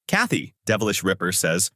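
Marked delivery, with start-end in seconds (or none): 0.1-0.5 understated alarmed call of a name. A narrator's reading. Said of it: "Rwanda calls out".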